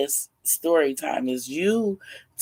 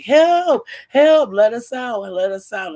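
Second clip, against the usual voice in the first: high, loud cries for help; acted captive's plea, loud then easing off; calling for help; 9 semitones higher, 8 dB louder than usual. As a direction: call out to be let go, pitched way up. Kidnapped captives calling out from room.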